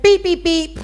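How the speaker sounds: loud, high mock beeps; imitated beeping. Preacher imitating the man next to her car, beeping. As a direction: beep like a put-out bystander.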